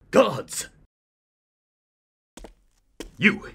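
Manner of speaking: calling out. Acted. King summoning his guards, calling out. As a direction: summon them across the hall.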